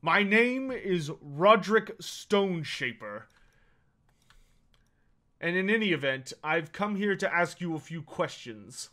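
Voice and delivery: stare them down as a dwarf; stern dwarf lord. Acted. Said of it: "stares you down and says".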